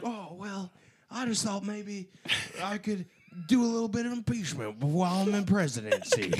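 a soft, lightly voiced Joe Biden impression; quiet, halting, a hint of Joe Biden. Showing off an expert Joe Biden impression to friends, soft and halting. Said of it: "I'm an expert impressioner".

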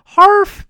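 short imitated dog bark. Krypto told to speak, single bark. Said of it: "Krypto speak".

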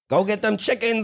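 a deliberately terrible Southern voice; hammed-up bad Southern accent. Shown as a demonstration. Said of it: "Mine was terrible".

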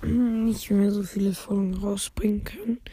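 hoarse, whispery sick voice. Real, not acted. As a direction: talk through a sore throat. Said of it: "ich bin ein bisschen krank".

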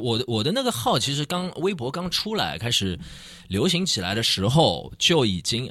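light Beijing accent; a hint of Beijing accent. Real, not acted. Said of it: "现在带点北京口音了".

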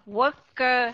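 worker with both syllables equal and full, slowly; heavy clear er in worker; even syllables. Shown as a demonstration. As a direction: give worker two equal beats. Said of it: "hai âm đều nhau".

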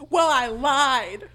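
loud, high, drawn-out hammed-up threat; defiant mock shout. Casey threatening the caller with her boyfriend, hammed-up defiant shout. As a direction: belt it out as an over-the-top bluff.

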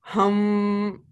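long, steady imitated breathing hum; breathing demonstration hum. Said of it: "This is how you need to breathe".

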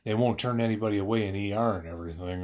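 lightly voiced paramedic, high and quick. Husband retelling paramedic reassuring him, quick and high. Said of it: "paramedic says".

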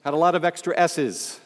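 extra-hissy S in "extra S's"; sibilant. Shown as a demonstration. Speaker mocking own early radio voice, sibilant on "extra S's". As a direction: let the S sounds in "extra S's" whistle long. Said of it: "I was also sibilant".

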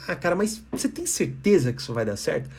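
mock-concerned, undermining question; passive-aggressive doubt. Shown as a demonstration. Lecturer acts out a passive-aggressive colleague, softly undermining. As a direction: feign worry while sapping their confidence. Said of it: "eu tô falando assim".

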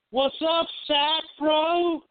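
high, hammy call-in host; put-on radio voice. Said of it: "That is not your voice".

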